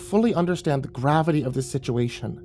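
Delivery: stern mother. Acted. Angry mother lectures son.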